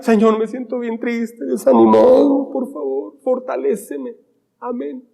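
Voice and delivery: soft, whiny mock prayer; a half-hearted plea, voice fading away; mock self-pitying prayer. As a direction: pray like you feel sorry for yourself, softly.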